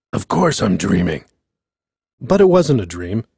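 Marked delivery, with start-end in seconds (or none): 0.1-1.2 puzzled bear. A narrator's reading. Bear reassures himself.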